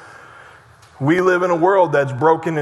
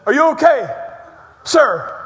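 concerned passerby; 5 semitones higher than usual. Retold or imitated. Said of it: "he said".

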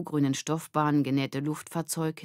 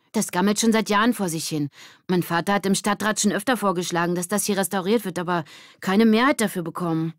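put-on higher, louder young voice; character voice; 4 semitones higher, 5 dB louder than usual. Kid explaining the decaying theater. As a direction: explain with some frustration.

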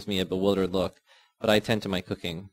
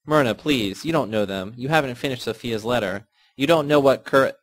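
rising, louder pleading; urgent plea; 4 semitones higher, 5 dB louder than usual. Acted. Yasna begging Myrna to stop, urgent and rising. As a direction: plead faster before she cuts you off.

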